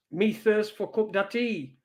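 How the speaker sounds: a light northern English take on Pidgin; northern English accent doing Pidgin, lightly. Retold or imitated. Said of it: "Pidgin in a northern accent".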